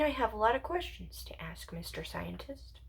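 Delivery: coyly murmuring the title; hushed mock address. Teasing an imaginary scientist, hushed and rising.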